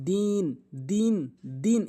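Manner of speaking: "দিন" with a drawn-out i; long madd. Shown as a demonstration. Teacher showing the stretch, "দিন" held long. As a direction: stretch "দিন" for three alifs. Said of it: "এখানে টেনে পড়তে হবে".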